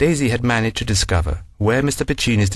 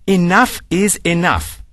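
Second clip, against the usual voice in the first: shouted; 8 semitones higher, slower than usual. Acted. Daisy at the secretary, fed up and shouting. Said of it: "Daisy shouted".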